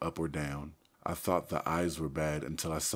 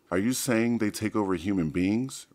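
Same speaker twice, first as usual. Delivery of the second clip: alarmed question; 4 semitones higher, 7 dB louder than usual. A narrator's reading. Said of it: "Rachel asked".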